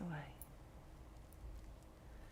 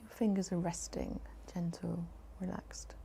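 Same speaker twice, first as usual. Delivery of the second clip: whisper. Acted. Whispered cue in meditation.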